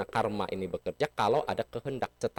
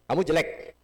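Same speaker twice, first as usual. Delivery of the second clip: mock insult; 7 semitones higher, 3 dB louder than usual. Shown as a demonstration. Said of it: "Saya praktekkan".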